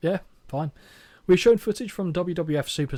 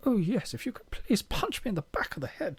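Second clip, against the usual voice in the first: higher-pitched, put-on British man; hammed-up British male voice; British gentleman; 7 semitones higher, 4 dB quieter than usual. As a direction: play a delighted British lord, comically polite. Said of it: "she's suddenly British and a man".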